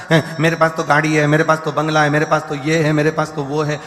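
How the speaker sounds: mock show-off boasting. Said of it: "इतना दिखावा करना चाहता है".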